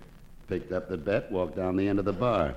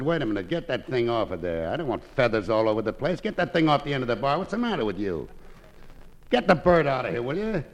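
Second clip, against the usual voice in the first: annoyed bartender; 2 semitones higher than usual. Acted. Bartender orders a parrot off the bar, mock annoyed.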